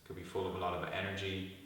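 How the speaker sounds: calm guided meditation with long pauses; guided body scan. Real, not acted. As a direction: lead them gently into stillness, pausing between instructions.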